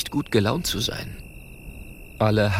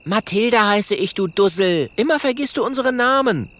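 high, louder cross correction; annoyed; 12 semitones higher, 4 dB louder than usual. Acted. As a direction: scold him for forgetting her name. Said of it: "sagt ärgerlich".

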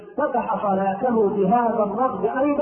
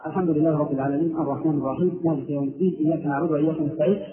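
low, unmelodic run through the verses; newspaper-style reading; 6 semitones lower than usual. Retold or imitated. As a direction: read it off without any tartil. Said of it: "كما يقرأ جريدة". (قراءة سريعة كقراءة الجريدة)

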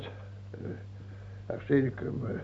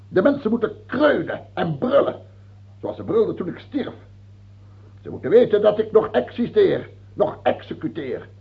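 ranting king; 5 semitones higher, 4 dB louder than usual. Acted. King rants about being hated.

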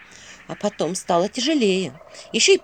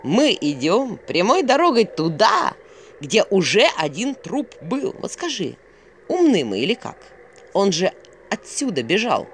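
exasperated owl; 2 semitones higher than usual. Acted. Owl questions going where a corpse was, exasperated. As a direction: spell out the folly word by word.

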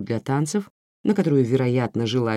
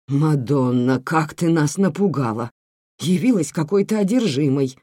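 exclaiming. Acted. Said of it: "воскликнула".

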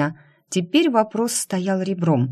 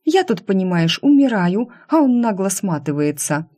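возмущение; 4 semitones higher, 3 dB louder than usual. Acted. Жалуется на уходящего шефа.

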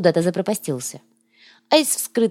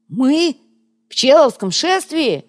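high, loud, incredulous outburst; disbelieving, eyes popping; astonished; 8 semitones higher, 4 dB louder, slower than usual. A narrator's reading. Koryaga, stunned by the procession offer, incredulous. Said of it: "вытаращился Коряга".

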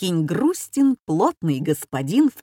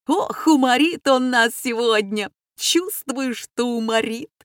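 gleeful anticipation; 5 semitones higher than usual. A narrator's reading. Students laughing in advance.

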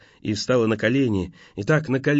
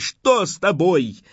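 panicked asking; 6 semitones higher, slower than usual. A narrator's reading. Panicked questioning of lover.

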